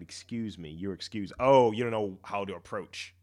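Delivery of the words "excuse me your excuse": timid, quiet. Shown as a demonstration. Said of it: "Instead of saying".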